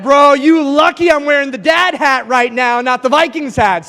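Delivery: father answering his son, loud mock warning; mock-stern dad retort. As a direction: fire back like a dad who got roasted. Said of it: "I said".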